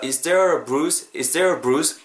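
"there a" merged into one uh sound; linked schwa. Shown as a demonstration. Teacher showing linking, "there a bruise" joined. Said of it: "어 발음이랑 어가 붙으면서".

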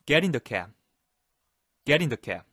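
"Get" punched, falling end; stress on get. Shown as a demonstration. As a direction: hit Get hard then fall. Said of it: "강세를 강하게 주면서". (Get에 강세를 세게)

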